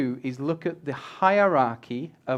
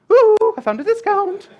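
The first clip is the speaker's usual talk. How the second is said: high, loud whoop of fake delight; hammed-up, drawn-out celebration; mock excitement; 10 dB louder than usual. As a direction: squeal the find in mock joy, slowly. Mock excited person sharing a discount.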